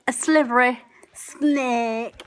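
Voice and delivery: slow hissing snake; slow sly snake. Shown as a demonstration. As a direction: draw out slippery like a snake.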